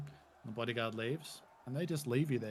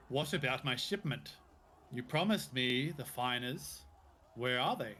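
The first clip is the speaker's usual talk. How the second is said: huffy captain; 4 dB louder than usual. Acted. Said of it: "Jamander's quite huffy when he speaks".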